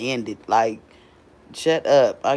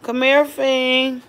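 calling out; 9 semitones higher, 6 dB louder, much slower than usual. Real, not acted. Calling daughter over.

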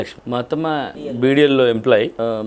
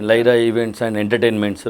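slow; much slower than usual. Shown as a demonstration. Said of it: "Lyra అంటే".

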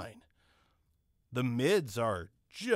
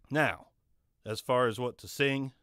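normal talking voice

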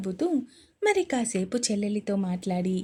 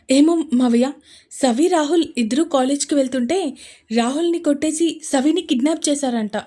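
frantic report; 3 semitones higher, 6 dB louder than usual. Acted. Frantic call to uncle.

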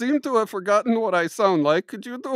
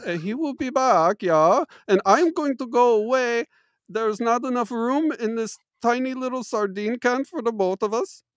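mock German accent. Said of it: "my accent goes in and out".

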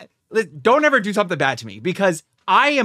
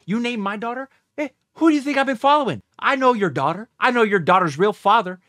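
crazed threat. Pretend. Viewer ranting as the wronged mother, crazed threat. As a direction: threaten like a mother who'd lose it. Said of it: "I, I actually sound crazy".

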